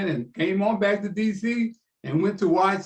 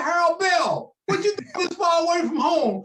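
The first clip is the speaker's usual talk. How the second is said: high, louder mock Ali greeting; imitating Ali; 10 semitones higher, 4 dB louder than usual. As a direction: play the champ calling out across the lobby. Retelling Ali greeting him.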